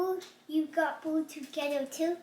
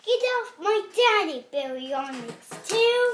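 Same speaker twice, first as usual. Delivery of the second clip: 1 playful yell; 5 semitones higher, 4 dB louder than usual. Acted. Kid mimics dad's play line.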